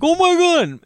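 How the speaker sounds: put-on high squeal of delight from a kid; a thrilled boy gasping; amazed kid. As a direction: kid given twenty dollars, squealing in surprise. Kid reacts to twenty bucks.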